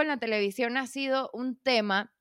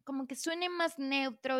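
quoted producer; 6 semitones higher, 3 dB quieter than usual. Retold or imitated. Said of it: "Algo así como".

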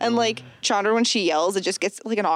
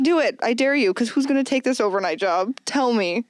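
defiant dare; 5 semitones higher than usual. Retold or imitated. Manager daring a complaining customer.

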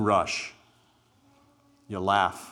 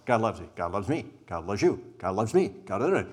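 rushed through; 5 dB louder than usual. Shown as a demonstration. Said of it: "And if you go".

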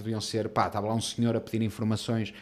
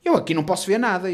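higher, louder mock refusal; dismissive clerk; 5 semitones higher, 6 dB louder than usual. Clerk telling client she sees nothing, dismissive. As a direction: imitate a clerk who won't help.

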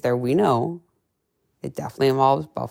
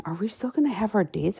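husband quoted; 6 semitones higher, 6 dB quieter than usual. Retold or imitated. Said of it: "my husband, first question".

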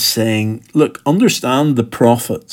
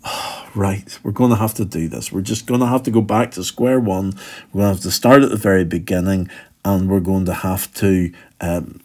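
weary sigh; 3 semitones lower than usual. Retold or imitated. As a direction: sigh and resign yourself to it. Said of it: "a sigh here and just going".

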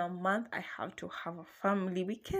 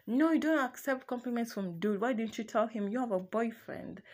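mock jealous boyfriend; 4 semitones higher than usual. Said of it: "he got pissed".

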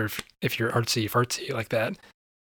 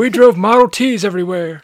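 put-on old man voice; 8 semitones higher, 9 dB louder than usual. Old man joke continued.

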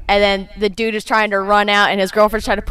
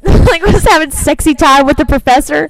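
high-pitched, helpless giggling while talking; laughing hard; 9 semitones higher than usual. Real, not acted. Co-host retelling the sexy time scene, laughing hard. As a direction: struggle to get the story out through laughter.

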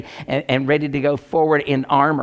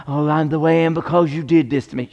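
lightly put-on complainer's voice; mock excuse-making. Preacher mimicking people who blame others, mock complaint. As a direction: imitate someone blaming others.

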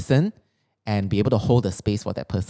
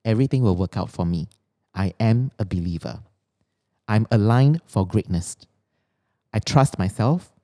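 affirmation reading. Acted. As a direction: read each line like a mantra. Reads her written affirmations.

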